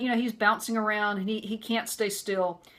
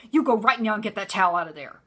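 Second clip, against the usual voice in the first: a bit louder, stern repeat; angry command; 6 dB louder than usual. Retold or imitated. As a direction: order her to fix it now. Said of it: "he came after her just like this".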